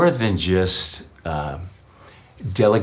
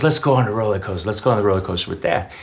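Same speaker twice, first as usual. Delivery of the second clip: put-on eager kid; much faster than usual. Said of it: "He goes".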